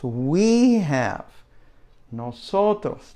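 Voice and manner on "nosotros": nosotros said slowly with a falling end; model for repeating. Shown as a demonstration. Teacher models nosotros slowly for students to repeat. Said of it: "just repeat that several times".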